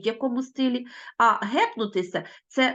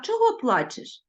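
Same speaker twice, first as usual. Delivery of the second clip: kinder version; 11 semitones higher than usual. Shown as a demonstration. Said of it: "от якби він сказав".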